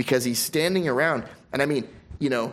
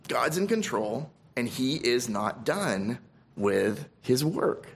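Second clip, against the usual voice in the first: softer, slower, lingering on each word; quiet and slow; 2 semitones lower, 5 dB quieter than usual. Acted. Preacher repeats the assurance to his flock, quiet and slow. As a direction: let it sink in gently, drawn out. Repeats the line more softly.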